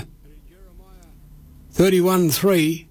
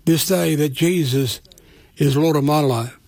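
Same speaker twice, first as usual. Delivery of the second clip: slow, measured prayer with long pauses between phrases; said slowly. Shown as a demonstration. Radio preacher leading listeners in a prayer, slow and measured. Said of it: "And I'll say it slow".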